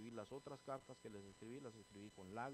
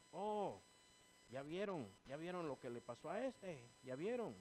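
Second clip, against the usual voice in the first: mock gloating; 4 semitones higher, 3 dB louder than usual. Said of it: "a mí no me puede alegrar".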